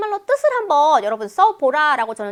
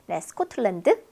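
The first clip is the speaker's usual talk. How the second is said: normal talking voice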